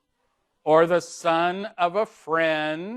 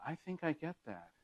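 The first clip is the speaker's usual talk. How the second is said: vague tone; 2 semitones higher, 14 dB quieter, faster than usual. Shown as a demonstration. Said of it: "in kind of a vague tone".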